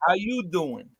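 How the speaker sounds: smooth, flirty Joey How you doing; Joey's pickup line. Shown as a demonstration. Joey repeats the line for friends, flirty. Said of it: "that was a panty dropper for Joey".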